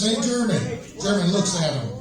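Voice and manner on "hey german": higher-pitched hail across a river; calling out. Acted. American soldier hailing the German across the river, calling out. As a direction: call over to catch someone's attention.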